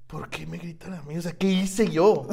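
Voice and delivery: nervous laughing; laughing from nerves. Real, not acted. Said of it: "Me da risa de nervios".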